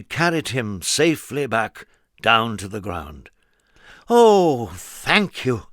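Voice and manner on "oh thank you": sigh of relief. A narrator's reading. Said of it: "with a sigh of relief".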